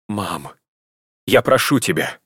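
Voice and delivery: breathed out pleading, with heat; fervent plea. A narrator's reading. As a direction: plead with all your heart. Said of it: "выдохнула Ирина с горячностью".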